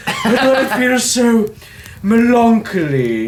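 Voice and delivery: melancholy said muh-LAN-kuh-lee, slow and drawn out; Megamind impression. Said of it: "ever since I watched Megamind".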